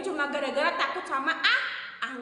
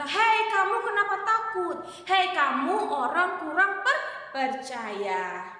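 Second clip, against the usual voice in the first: stern rebuke; 4 semitones higher, slower than usual. Acted. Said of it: "Sampai-sampai Tuhan berkata".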